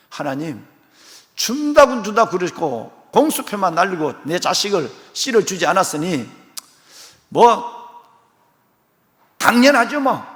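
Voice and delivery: Abraham reproaching God for empty promises; reproachful complaint. Acted. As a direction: blame God with sarcasm. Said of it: "하나님을 매우 책망하는 듯".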